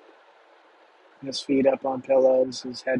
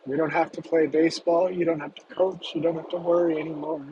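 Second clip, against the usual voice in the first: higher, gently insistent plea; earnest pleading; 3 semitones higher than usual. Acted. Teen pleading with his sick dad.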